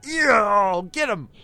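loud high cheer of egging on; root for the bear like a fan. Retold or imitated. Watching the bear attack and cheering it on, loud excited cheer. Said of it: "I went".

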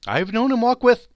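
high, loud burst that breaks off; cheerful but faltering. Acted. Mother remembers Tiny Tim with his father, faltering cheerfulness. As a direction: push brightness into it, then falter. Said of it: "cheerful voice that only faltered once".

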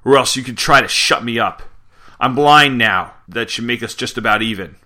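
mock yell, punching the openings of phrases; retold yell. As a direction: raise your voice in a mild acted yell. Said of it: "Pig yells".

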